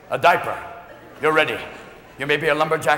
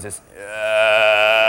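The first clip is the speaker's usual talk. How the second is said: low, drawn-out eerie drone; long low groan; imitated baby noise; 12 semitones lower than usual. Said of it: "they make this noise".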